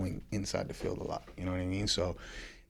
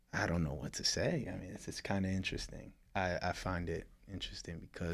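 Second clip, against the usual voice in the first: sexy voice; 4 dB quieter than usual. Real, not acted. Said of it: "why are you talking with this sexy voice".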